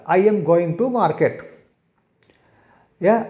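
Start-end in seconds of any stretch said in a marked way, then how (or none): 0.1-1.3 each word said slowly and clearly; slow example sentence. Shown as a demonstration. Teacher slowly reading out an example sentence. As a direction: spell the English out slowly for the class. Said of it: "जैसे रौरे कहेला".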